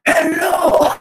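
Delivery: a high, loud mock shout of hello; mock calling out. Player mimicking calling to sketchy figures, high mock shout. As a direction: call out to the strangers, cheerfully loud.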